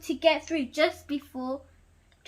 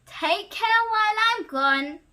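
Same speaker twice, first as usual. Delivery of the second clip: dad's parting words; 6 semitones higher, 4 dB louder than usual. Acted. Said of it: "he said".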